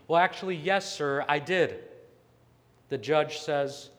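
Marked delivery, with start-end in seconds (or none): 0.1-1.8 mildly mock-polite, louder opening; sarcastic. Defendant admitting the curse to the judge, sarcastic. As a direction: answer with acted cheeky sarcasm. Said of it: "again with sarcasm".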